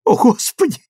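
high, loud anguished cry; husband crying out, wringing his hands. A narrator's reading. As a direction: cry out in despair. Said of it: "крикнула Тэтчер".

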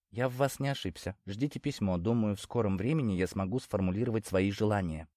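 hushed, sly dealer's voice; soft-spoken leprechaun. Acted. Leprechaun closes the deal.

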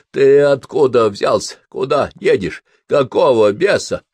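loud, slow startled questions; confused alarm, demanding. Acted.

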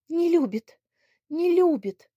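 high, loud tearful lament; tearful repeating. Acted. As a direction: wail it over and over. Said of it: "повторяла Надя". (слёзно повторяя)

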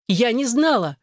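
sharp high cry of denial; cried out. A narrator's reading. Wife cries out her denial to husband, high and sharp. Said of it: "выкрикнула Аня".

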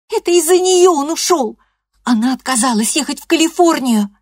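put-on high, loud, upset girl's voice; teen girl blaming her mother, high and loud; defiant teenage girl. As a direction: fire it back at grandma, hurt and angry. Loreda's voice, defiant.

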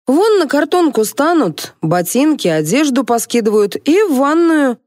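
high, lively housekeeper explaining; a hint of a matter-of-fact domestic; lightly voiced housekeeper. A narrator's reading. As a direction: pitch it up and give brisk instructions.

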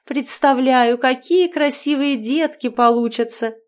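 bubbly overbearing mother-in-law chattering; cheerful witch. Acted. Marianna gushing about grandchildren. (ведьма щебечет слегка выше обычного)

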